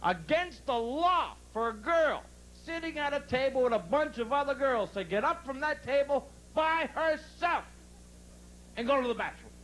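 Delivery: comic indignation; mock serious. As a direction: stretch it out like a grave accusation. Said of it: "watch how serious I get on this".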